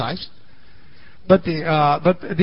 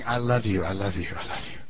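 fading whisper-soft; 11 semitones lower, 11 dB quieter than usual. Retold or imitated. Pieces on ground saying.

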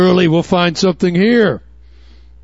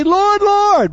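pleading cry; 12 semitones higher than usual. Acted. Preacher voices pleading false believers.

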